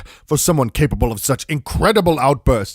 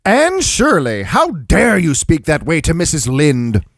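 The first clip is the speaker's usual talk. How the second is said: Marilla scolding; 2 semitones higher than usual. Acted. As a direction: bark the name, then scold. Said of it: "stunned herself at what came out of her".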